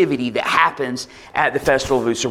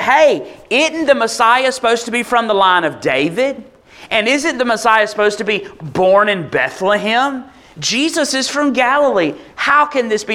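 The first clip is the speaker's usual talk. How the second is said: higher, puzzled voice of the doubting crowd; incredulous crowd; 5 semitones higher than usual. Retold or imitated. Crowd asking how Jesus can be from Galilee, high and incredulous. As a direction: raise the pitch as the crowd questions in disbelief.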